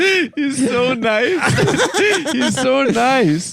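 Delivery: giggling through the words; can barely get it out for laughing. Real, not acted. Laughing hard.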